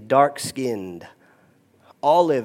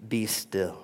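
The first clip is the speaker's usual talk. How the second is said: hushed be still; 6 semitones lower, 10 dB quieter than usual. Acted. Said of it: "something more to these two words".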